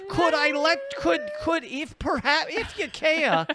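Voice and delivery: a meek, sorrowful rabbi asking very politely; sad rabbi voice. Pretend. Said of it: "that's a sad rabbi voice".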